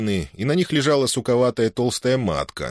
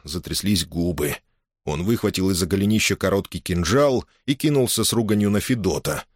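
plain reading voice

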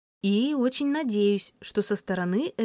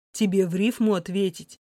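rude. Acted. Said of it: "грубо произнёс он".

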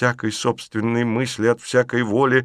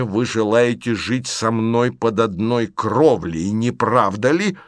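Lavretsky, cold and bitter. Acted. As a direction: hold anger under control. (Лаврецкий, холодно и горько)

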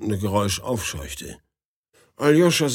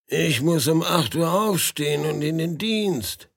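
indignant; 6 semitones higher than usual. Acted. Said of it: "sagte Aljoscha empört".

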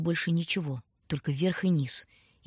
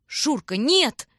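higher, louder shout of no; alarmed cry; 7 semitones higher, 4 dB louder, much slower than usual. A narrator's reading. Tanya trying to stop her brother, alarmed cry. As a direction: stop him before he charges.

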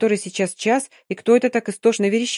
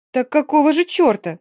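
sudden angry outburst, higher and louder; flaring up; 6 semitones higher, 4 dB louder than usual. Acted. Mary exploding at Yulka, sudden angry outburst. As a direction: snap back in exasperation. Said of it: "взвилась Мэри".

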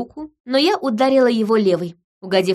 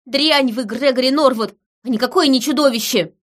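high, emphatic denunciation; angry insult; 5 semitones higher, 4 dB louder than usual. A narrator's reading. Woman slapping Gregory and calling him trash, furious. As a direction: hurl the insult, raised and heated.

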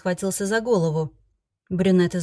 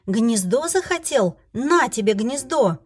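angry slow jab; 4 semitones higher, slower than usual. Acted. Heroine hits the dragon.

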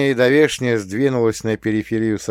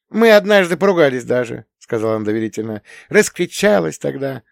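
higher sister voice telling her troubles; Nastya confiding; 10 semitones higher, 7 dB louder than usual. A narrator's reading. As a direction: confide like a fed-up young wife.

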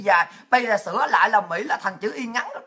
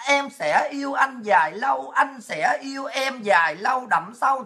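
slow drawn out; slower than usual. Shown as a demonstration. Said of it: "Để cho thấy cái tình yêu nó dài".

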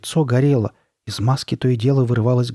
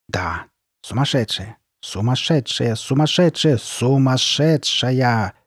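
echoing insult, building; 2 semitones higher, slower than usual. Acted. Insult resounding in her mind, mounting repetition.

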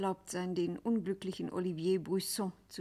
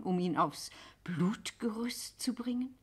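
whispering; 3 semitones higher than usual. Acted. Scuderi horrified.

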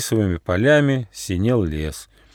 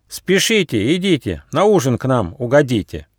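taunting call, a touch higher; mild mock shout; 4 semitones higher than usual. Young ferret taunts the friends on the road, mildly shouted. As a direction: tease the travellers with a sing-song threat. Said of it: "крикнул".

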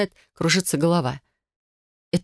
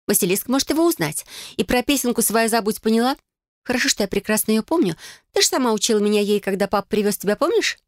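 put-on bright, higher girlish cousin voice, eager; Felicia's voice; 6 semitones higher than usual. Cousin proposing a blood oath to Adel, eager and higher. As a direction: play the scheming cousin, higher.

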